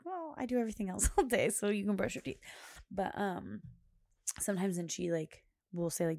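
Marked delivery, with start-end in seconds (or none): 0.0-2.4 exasperated retort. Retold or imitated. Acted retort to husband.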